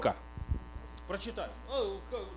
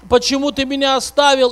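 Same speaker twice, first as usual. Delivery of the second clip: put-on high crying child voice, loud; 6 semitones higher, 8 dB louder than usual. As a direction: wail it like a lost little boy. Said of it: "И вот он плакал, плакал".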